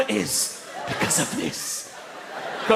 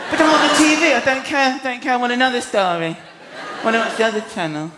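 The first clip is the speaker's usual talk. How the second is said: put-on whiny kids. Dad imitates his kids dismissing his TV debut, whining. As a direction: play a bored kid brushing Dad off. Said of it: "They're like".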